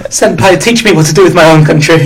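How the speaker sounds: quick, pleading anime-fan voice; playfully begging senpai for guidance; mock anime plea. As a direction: beg senpai, hurried and cute.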